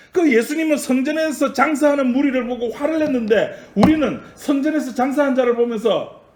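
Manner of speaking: high, emphatic preacher's voice; forceful preaching. Real, not acted. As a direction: drive the point home to the congregation.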